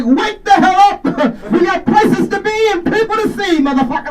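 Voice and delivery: high, loud diva wake-up yell; Jennifer Lewis alarm. Retold or imitated. Jennifer Lewis as an alarm clock yelling someone awake, high and loud. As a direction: bellow her awake like a diva. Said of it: "She'd be like".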